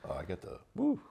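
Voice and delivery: stuffy blocked nose. Real, not acted. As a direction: talk through a blocked nose. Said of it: "I can't breathe through my nose".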